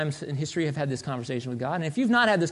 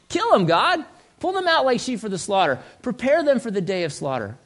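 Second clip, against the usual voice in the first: high, forceful acted plea; frustrated; 5 semitones higher than usual. Prophet begs God for judgment, frustrated. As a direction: urge it on, exasperated, then ease down. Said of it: "I'm frustrated".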